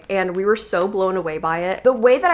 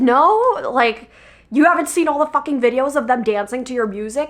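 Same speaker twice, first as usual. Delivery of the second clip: excited; 5 semitones higher than usual. Retold or imitated. Excited retort to celebrity.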